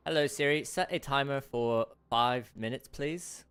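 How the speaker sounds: imperfect, put-on British; scuffed British accent. Streamer asking Siri for a timer, scuffed British accent. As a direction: attempt British, not quite landing it. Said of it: "my British accent isn't doing too hot".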